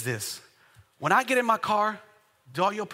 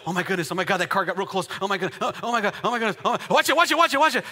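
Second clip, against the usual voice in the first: playful imitation of a nervous driver; mock driver panic; much faster than usual. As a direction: fret over traffic, building to repeated warnings.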